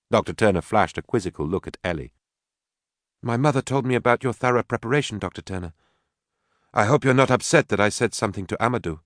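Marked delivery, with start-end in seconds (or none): 3.2-9.0 put-on higher-pitched young woman's voice; polite daughter. Daughter hopes the doctor is not upset, polite. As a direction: explain yourself politely to the doctor.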